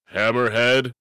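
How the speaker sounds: weak stunned stammer; stammered weakly. A narrator's reading. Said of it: "Alcahest stammered weakly".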